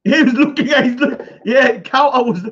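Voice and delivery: laughing through the words. Real, not acted. Telling viewers what the rival looked at, laughing. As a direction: giggle it out quickly.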